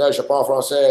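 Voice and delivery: "je parle français" said in French; a casual switch into French for "je parle français"; speaking French. Retold or imitated. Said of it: "I started speaking French".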